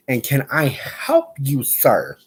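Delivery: slow, sassy can I help you; sassy slow scolding; mock-stern question. Real, not acted. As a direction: call out the dog with attitude. Scolding the dog.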